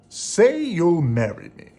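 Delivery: loud, high, pushy suitor's demand. A narrator's reading. Gaston demands Belle marry him, loud and pushy. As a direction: press her for a yes. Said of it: "Gaston demanded".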